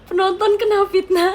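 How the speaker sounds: high, loud mock outrage at slander; indignant shout. Real, not acted. Streamer protesting to viewers, loud and high. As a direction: cry out as if wrongly accused.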